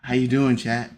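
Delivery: low monotone voice. Retold or imitated. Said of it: "low monotone voice".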